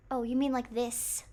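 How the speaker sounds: ordinary talk, nothing marked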